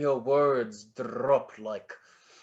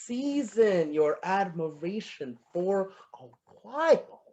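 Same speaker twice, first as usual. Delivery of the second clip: mimicking her line; 2 semitones higher than usual. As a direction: copy her line back like a tune. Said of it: "mimic me to my face".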